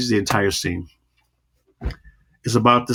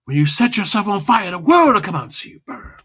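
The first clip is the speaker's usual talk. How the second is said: low and fast; 8 semitones higher than usual. Shown as a demonstration. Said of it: "as you go low and fast".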